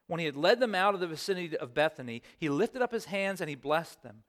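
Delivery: measured, even Bible reading; scripture reading. Acted. Pastor reading scripture aloud to the congregation. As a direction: read the passage to the church.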